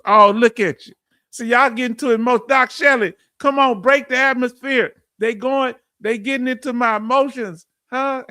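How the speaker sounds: host pushing past tears with loud excitement; flustered excited outburst. Real, not acted. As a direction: shake off the emotion with a burst of energy. Host deflecting emotion to chat.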